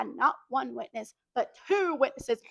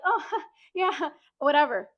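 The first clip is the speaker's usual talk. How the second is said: laughing brush-off; 2 semitones higher than usual. Retold or imitated. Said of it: "Literally, like".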